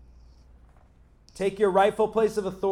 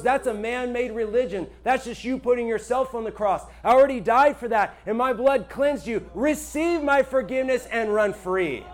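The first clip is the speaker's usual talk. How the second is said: firm loving God; 4 semitones higher, 3 dB louder than usual. Retold or imitated.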